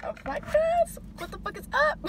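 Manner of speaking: high-pitched joke greeting; mock hype. Vlogger jokingly greets viewers then says just kidding, mock hype. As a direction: burst into exaggerated high hype.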